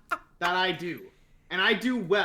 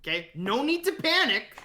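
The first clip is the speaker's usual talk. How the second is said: lightly voiced calming panic-soother, a bit higher; Danny impression; 4 semitones higher than usual. The speaker imitating Danny calming fans, lightly voiced. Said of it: "let me do my best Danny impression".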